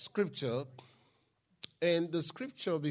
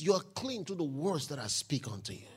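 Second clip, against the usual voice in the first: soft, lower, calm repeat of the line; quiet retelling; 6 semitones lower, 6 dB quieter than usual. Acted. Preacher retelling Jesus's answer to one seeker, quiet and calm. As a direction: say it gently, almost to yourself.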